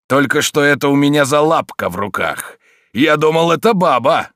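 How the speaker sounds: shocked at the strong hand; startled thug. A narrator's reading. Thug surprised by the grip. (изумлённый возглас громилы, громко и высоко)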